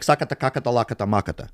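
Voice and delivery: lightly voiced Macedonian-sounding gibberish; mock Macedonian gibberish. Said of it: "It sounds Macedonian".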